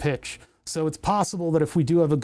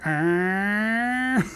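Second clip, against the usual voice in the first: pirate arr; 4 semitones higher than usual. Shown as a demonstration. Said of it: "This is where you would hear".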